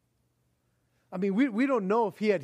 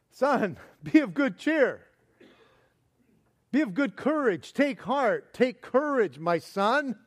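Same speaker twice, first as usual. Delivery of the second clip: a touch higher, warm encouragement; encouraging Jesus voice; 4 semitones higher than usual. Acted. Jesus cheering up the paralytic, lightly raised and warm. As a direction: cheer him up like a father would.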